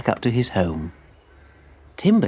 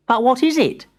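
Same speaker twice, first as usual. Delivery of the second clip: put-on high, eager child-like voice; young tree voice; 12 semitones higher than usual. A narrator's reading. Timbertwig thanks his spider friend, high and eager. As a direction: sound small and pleased.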